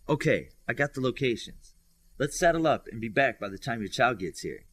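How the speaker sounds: joking fake Texas accent; bad Texas accent. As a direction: play a cowboy badly in a Texas accent. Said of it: "she said with a bad Texas accent".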